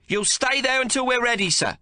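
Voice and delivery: high, loud, firm refusal; midwife shouting back. Acted. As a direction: hold your ground and shout it. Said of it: "she shouts back".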